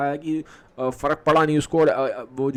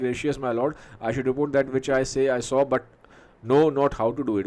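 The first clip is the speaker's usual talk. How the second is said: drawn-out, halting reading of the soliloquy; teacher reads Macbeth's soliloquy slowly; slow Shakespeare recitation; much slower than usual. Acted. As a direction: let each phrase hang. Reads the messenger's line.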